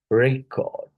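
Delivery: "record" as REC-ord, first syllable leaned on; stress on first syllable. Shown as a demonstration. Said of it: "First syllable".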